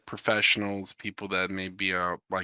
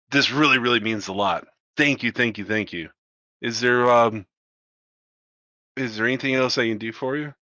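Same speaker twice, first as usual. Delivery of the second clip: gushing thanks; 4 dB louder, faster than usual. Acted. Grateful guard gushing.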